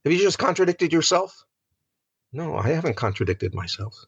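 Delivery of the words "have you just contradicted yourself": puzzled objection. Retold or imitated. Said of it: "And we say".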